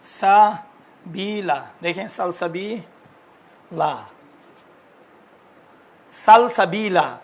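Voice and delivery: सलसबीला stretched slowly, final ला held; slow spelled-out word. Shown as a demonstration. Teacher reading the word as written, slow and deliberate. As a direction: say सलसबीला slowly, every syllable clear. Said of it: "लिखा हुआ है".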